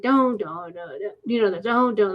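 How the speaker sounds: humming out a far-off drumbeat; drumbeat imitation. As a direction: mimic a distant powwow drum, don don. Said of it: "like, the drumming".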